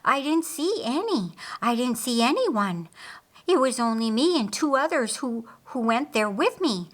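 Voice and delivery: high, breathless, stumbling; still gasping. Acted. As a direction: push words out between breaths. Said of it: "still gasping breaths".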